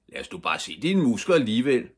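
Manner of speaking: put-on taunting boys. A narrator's reading. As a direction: goad him like a bully. Big boys taunting Ivan. (højlydt drillende)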